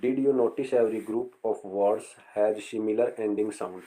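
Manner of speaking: reads the textbook line slowly; slow reading aloud. Shown as a demonstration. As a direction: read each word out slowly for the class. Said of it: "reading textbook instruction slowly". (किताब की पंक्ति धीरे-धीरे पढ़ना)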